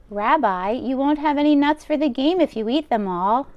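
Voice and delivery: put-on old grandmother voice. Old baba taking the rabbi's coat, high and fussing. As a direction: bustle like a kind deaf baba. Baba voicing lines to Bear.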